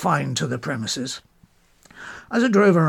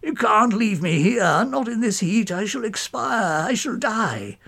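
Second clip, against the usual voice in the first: bleating goat; 4 semitones higher than usual. Acted. Poet Mowbray left in the ditch, begging with a high bleating whine. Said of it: "bleating like a dashed goat".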